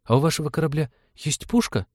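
put-on high, eager child voice; hopeful little boy. A narrator's reading. Boy asks about the ship's cannon, hopeful high voice. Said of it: "с надеждой спросил он".

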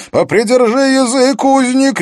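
loud, high-pitched snapped order; angry bark. A narrator's reading. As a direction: bark it at a prisoner to silence them. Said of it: "рявкнул он".

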